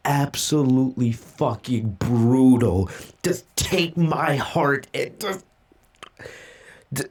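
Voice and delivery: real anguish, slow and stretched out; tearing up. Real, not acted. Reader floored by a brutal manga chapter, overcome and tearing up. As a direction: drag the words out as the tears threaten. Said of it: "I'm tearing up".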